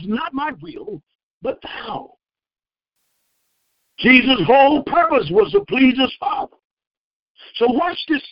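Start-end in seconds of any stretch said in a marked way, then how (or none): 0.0-2.2 slow, soft, breaking into a cry; quiet tearful surrender; tearful prayer. Acted. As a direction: pray through tears, surrendering. Jesus praying in anguish.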